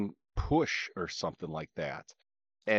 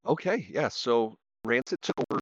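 crackly connection. Real, not acted. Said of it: "I'm hearing it again".

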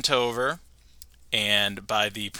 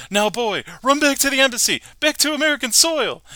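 high, loud Homer voice; 13 semitones higher, 5 dB louder than usual. Acted. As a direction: command the boy, pitched high. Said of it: "he says".

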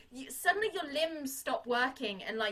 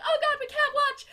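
high, louder gasp of dread; horrified cry; 11 semitones higher, 6 dB louder than usual. Retold or imitated. Grace and Warbucks watching from below, crying out high. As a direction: cry out, unable to look. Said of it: "They're like".

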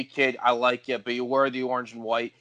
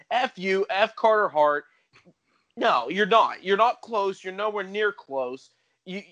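raised, emphatic trash talk; angry rant; 4 semitones higher than usual. Real, not acted. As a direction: tear into the rival team. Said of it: "you sound upset".

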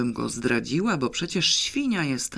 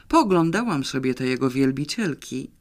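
pensive. Acted. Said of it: "powiedziałam w zadumie".

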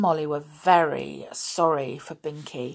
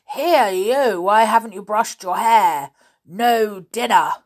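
furious roar at the pupils; angry schoolmaster roaring; 5 semitones higher, 9 dB louder than usual. Acted. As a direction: bellow each order at the boys. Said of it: "and roared".

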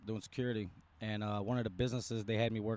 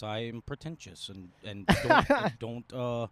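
slow, prim, pretentious voice with loud bursts; mock white voice; 5 dB louder, slower than usual. Shown as a demonstration. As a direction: play a stuck-up white guy, hammed up. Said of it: "speak like this".

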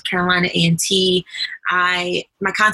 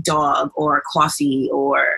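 dog and coffee in a New York accent; slow New York accent on dog and coffee; New York accent words; 3 semitones lower, slower than usual. Shown as a demonstration. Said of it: "you'll only hear my accent depending on if I say".

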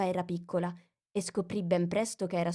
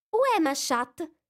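high, louder textbook French "Où est ma chatte?"; schoolgirl French; 10 semitones higher, 5 dB louder than usual. A narrator's reading. Alice tries French on the mouse. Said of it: "prima frase del suo libro di francese".

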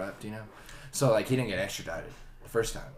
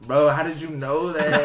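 put-on louder, slower Mexican-accented protest; mock Mexican accent, raised voice; 3 semitones higher, 6 dB louder than usual. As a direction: imitate a Mexican gamer, incredulous and drawn out. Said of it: "there was a Mexican guy on our team".

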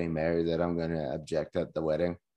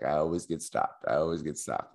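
tag-along friend's complaint; 5 semitones lower, 5 dB quieter than usual. Retold or imitated. Voicing his resigned friend before travel.

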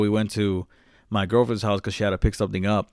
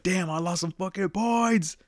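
1 slow mock lament; 9 semitones higher, slower than usual. Lamenting to girlfriend.

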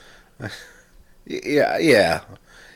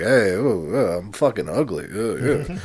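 Rodney Dangerfield; 2 semitones lower, 3 dB quieter than usual. Acted. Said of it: "you got Rodney Dangerfield".

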